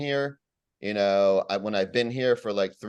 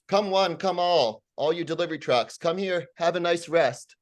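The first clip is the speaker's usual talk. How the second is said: high, sarcastic come-one-come-all call; mock carnival barker; 7 semitones higher than usual. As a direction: hawk it like a sideshow barker, mocking. Mock invitation to delivery trucks.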